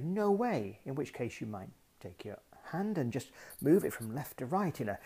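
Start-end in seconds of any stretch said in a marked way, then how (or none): 0.0-0.8 a firm, louder, higher "No way"; emphatic no way. Shown as a demonstration. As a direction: say "No way" like you mean it, firmly. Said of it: "You might want to say".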